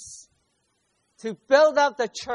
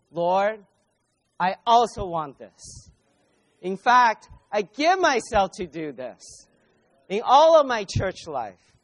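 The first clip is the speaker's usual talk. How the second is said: fervent prayer; 4 dB louder than usual. Acted. Voicing the believers' prayer.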